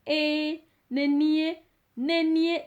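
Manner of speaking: nenie repeated with rising stress; emphatic. Shown as a demonstration. Teacher showing learners how to insist it is me. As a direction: lean hard on nenie, nenie. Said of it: "This is just emphasizing".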